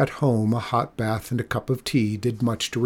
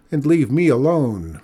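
louder, indignant dismissal; shouted; 3 semitones higher, 6 dB louder than usual. A narrator's reading. Cat feeder telling the old man off, shouting. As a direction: send him off in a raised voice. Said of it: "shouted Mikola".

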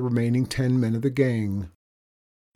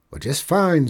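higher, louder cowboy voice; contented outlaw; 6 semitones higher, 5 dB louder than usual. Acted. Outlaw on roof answering the boy, contented. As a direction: holler back cheerfully.

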